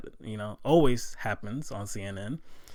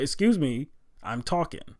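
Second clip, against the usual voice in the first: louder, higher snapped retort; aggressive retort; 5 semitones higher, 5 dB louder than usual. Retold or imitated. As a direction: cut her off sharply, imitating him. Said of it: "he said pretty aggressively".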